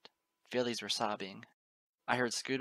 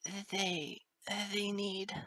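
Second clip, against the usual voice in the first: put-on high, faltering young voice; desperate sobbing; 10 semitones higher, much slower than usual. A narrator's reading. Colt worried for his family, high sobbing stammer. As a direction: falter as if between sobs. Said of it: "between desperate sobs".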